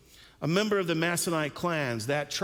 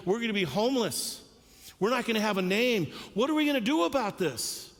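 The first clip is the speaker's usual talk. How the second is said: higher, faster anxious plea from a sister; worried sister; 5 semitones higher than usual. Pretend. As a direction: voice a frightened sister, rushing. Preacher voices anxious sister Tirzah.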